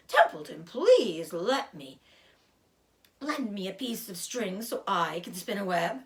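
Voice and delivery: a touch of sour disgust, grumbling; mildly grumbling rat, fed up with errands. Acted. Rat complains to Wilbur, mild disgust. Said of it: "he said in disgust".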